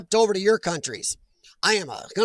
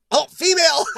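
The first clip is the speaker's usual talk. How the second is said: surprised; 7 semitones higher, 7 dB louder than usual. Real, not acted. Realises viewer is a woman.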